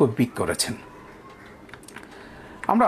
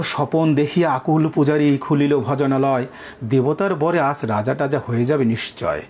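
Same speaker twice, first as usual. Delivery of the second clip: poem recitation. Acted. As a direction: read each line out with care.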